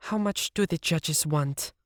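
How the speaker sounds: cooling down, almost guilty; calmer Siv. A narrator's reading.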